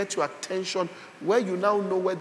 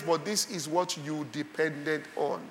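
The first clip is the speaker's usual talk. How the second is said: soft, low, wounded appeal; subdued child's protest; 3 semitones lower, 6 dB quieter than usual. Acted. Child to the parent now frowning, quietly hurt. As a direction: drop to a quiet reproach.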